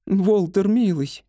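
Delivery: high-voiced, patient wife; patient soothing. A narrator's reading. Wife calms ranting husband, patiently. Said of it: "терпеливо сказала Этель".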